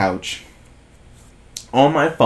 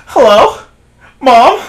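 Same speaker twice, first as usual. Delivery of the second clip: higher, louder imitated phone greeting; high mock hello; 11 semitones higher, 9 dB louder, slower than usual. Girl picking up her mom's call, mock high. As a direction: squeak out a nervous hello.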